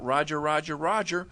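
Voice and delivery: mild demo shout of the call; yell out. Shown as a demonstration. Linebacker calling strength right, mild shout. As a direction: call it out to the line. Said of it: "Sam yells out".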